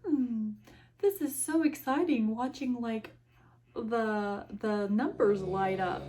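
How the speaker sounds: sarcastic show of excitement; feigned fascination. Acted. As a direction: pretend the floor numbers are thrilling. Feigned interest in silent elevator ride.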